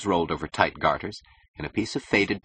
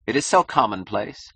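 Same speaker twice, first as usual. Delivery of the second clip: a touch higher, languid disdain; understated bored superiority; bored drawl; 4 semitones higher, 4 dB louder than usual. Acted. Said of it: "she drawled".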